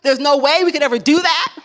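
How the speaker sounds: scornful clerk. Retold or imitated. Retelling the first clerk's scornful refusal, mock sneering. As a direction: sneer at the request. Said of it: "The one that the woman had said".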